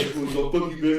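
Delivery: casual curse near everyday pitch; dismissive brush-off. Retold or imitated. Telling off the friend who never called, dismissive brush-off. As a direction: toss the insult off coolly. Acted quarrel, first take.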